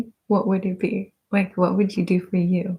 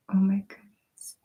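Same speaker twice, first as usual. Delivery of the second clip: soft unvoiced whisper; 5 dB quieter than usual. Real, not acted. ASMR host touched by viewers' answers, whispered. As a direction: let it out on the breath.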